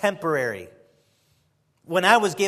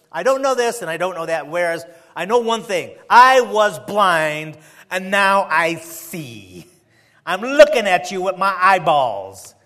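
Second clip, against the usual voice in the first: frustrated insistence; 4 dB louder than usual. Retold or imitated. Healed blind man answering those who keep questioning him, frustrated. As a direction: imitate a fed-up man insisting on his point. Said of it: "he was frustrated".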